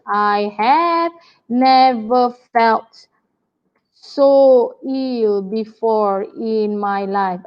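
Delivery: slow, theatrical moaning lament; milk every word like a drama queen; overplayed sick pupil, slow and sorry for herself. Shown as a demonstration. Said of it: "very drama queen".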